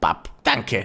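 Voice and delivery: low, muffled voice. After asking Pyro for a hand, the speaker answers with a Pyro impression. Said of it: "That's my best Pyro impression".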